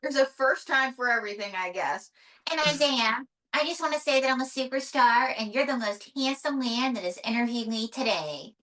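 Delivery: lightly voiced superstar puppet; a touch of flirty puppet diva; puppet diva May, flirtatious. Puppet May flatters her interviewer, lightly voiced flirty diva.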